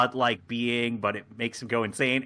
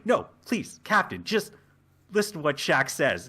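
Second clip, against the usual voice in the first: high, insistent plea; urgent pleading; 3 semitones higher than usual. Acted. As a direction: beg the captain to hear someone out. Boimler pleading with the captain.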